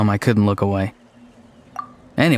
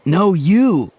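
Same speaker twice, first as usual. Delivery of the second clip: mock childish shout, pitched up; retold shout; 6 semitones higher than usual. Ahau mid-argument with Kakuku, mock shouting. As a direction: toss back a petty shout like a squabbling kid. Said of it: "just started immediately shouting".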